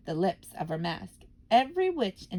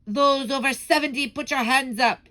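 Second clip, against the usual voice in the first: loud, higher command; sudden bark; 6 semitones higher, 7 dB louder than usual. Acted. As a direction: bark the order at the old ones. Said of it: "she barked suddenly".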